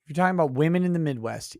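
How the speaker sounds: rattled off fast; fast throwaway second take; rushed repeat. Shown as a demonstration. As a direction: fire the phrase again, quickly. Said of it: "repeats the same phrase faster".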